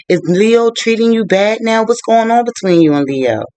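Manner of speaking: acted-out worried questions; concerned questioning. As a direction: retell a worried friend probing for answers. Acted worried questioning of bruised friend.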